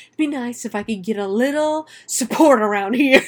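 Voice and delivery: exasperated dad, lightly imitated; mock fatherly complaint. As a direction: imitate a father griping at the kids. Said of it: "he does his dad's dad voice".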